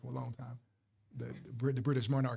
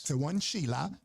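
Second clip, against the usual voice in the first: imitated Aussie cab driver; Australian accent; slower than usual. Retelling a cab driver's line, Australian accent. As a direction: finish the line in broad Australian. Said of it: "That's how he said it".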